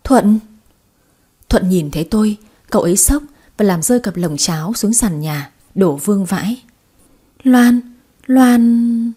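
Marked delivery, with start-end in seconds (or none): 0.0-0.4 shocked. Acted. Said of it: "tôi tròn mắt kinh ngạc". 7.4-9.1 louder, higher cry of a name; shocked cry. Acted.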